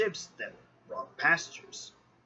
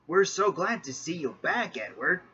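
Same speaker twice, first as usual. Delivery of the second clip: cheering; 5 semitones higher, 4 dB louder than usual. Acted. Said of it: "cheered James".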